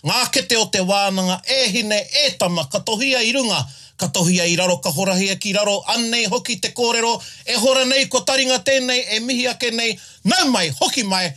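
long chant on a single breath; all in one breath. Acted. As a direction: rush the chant without breathing. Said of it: "ooh, nearly in one breath".

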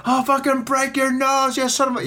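high, slowed mock threat; imitated yelling clerk. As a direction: play the enraged shopkeeper, stretched and hammed up. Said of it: "The guy was fucking yelling at me".

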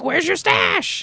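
high, slow strained voice; mock desperate junkie. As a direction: whine it like a needy addict. Portnoy desperate for drugs.

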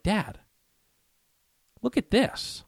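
high, excited call to dad; excited kid calling his father. Retold or imitated. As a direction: call dad over, thrilled. Calling to dad over buck.

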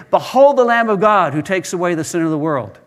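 mild mock proclamation; retold shout. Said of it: "So he shouted out again".

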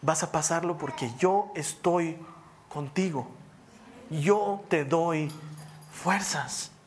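slow, measured assurance; God's answer. Retold or imitated. God answering someone overwhelmed by hardship, slow firm assurance. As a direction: weigh out each word with long pauses. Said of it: "la respuesta de Dios es".

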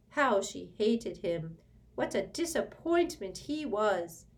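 high, loud, slow bitter elf lament; furious house-elf mutter. A narrator's reading. House-elf curses Sirius under his breath, furious and grieving. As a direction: grumble with venom and grief for the mistress. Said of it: "then muttered furiously".

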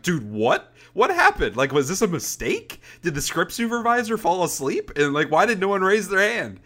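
high, incredulous fan outcry; mock outraged fans. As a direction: ham up the fans' disbelief. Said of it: "everybody's like".

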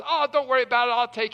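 lightly imitated friend waving it off; a touch of "no big deal" generosity; breezy reassurance. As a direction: start high and loud, then ease down. Friend reassures him, offers to pay.

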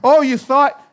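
loud, high scoff; proud scoffing. Acted. Proud person scoffing at criticism, loud and high. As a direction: scoff at being corrected. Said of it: "Humility doesn't say".

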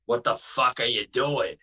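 put-on mild Boston accent; Jason Rumble. Wrestler looking into the car at drinkers, mild Boston accent. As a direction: imitate a Bostonian's challenge with a light accent. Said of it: "so he talks like this".

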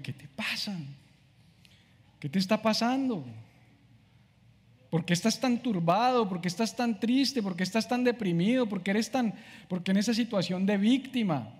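a lightly voiced stern self-talk; scolding himself. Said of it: "a veces me toca sacudirme".

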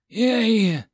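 high, loud happy cheer. Acted. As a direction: cheer with glee. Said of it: "Gotha cheered".

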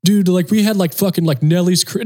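high, hammed-up bragging yell; mock screaming stagehand. Stagehand boasting at the drummer, high mock yell. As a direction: play the stagehand shouting his boast up high. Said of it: "this guy's screaming to me".

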